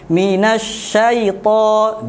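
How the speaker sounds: minasyaita with soft easy ai; soft lin. Shown as a demonstration. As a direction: minasyaita gently, no pressing. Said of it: "lembut biasa".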